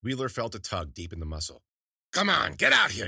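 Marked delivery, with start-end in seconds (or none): 2.1-3.1 high, loud crone voice tugging something out; cackling crone calling the thing out; coaxing old witch. A narrator's reading. Witch drawing the egg out of Wheeler's arm, high loud crone coaxing.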